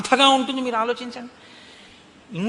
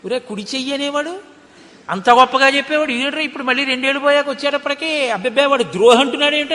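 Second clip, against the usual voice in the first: mock indignant friend; 4 semitones higher, faster than usual. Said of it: "ఆ వచ్చిన ఆయన ఏమనుకుంటాడు?".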